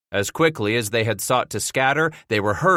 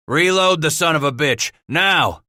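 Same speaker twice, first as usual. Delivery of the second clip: raised, high, forceful command; ordering; 5 semitones higher, 5 dB louder than usual. A narrator's reading. Gamble tells the gun crew to reload, ordering forcefully. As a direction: order it done at once. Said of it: "Gamble ordered".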